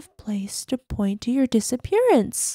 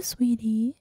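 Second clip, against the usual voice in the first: whisper; 4 dB quieter than usual. Acted. Sinister endearment.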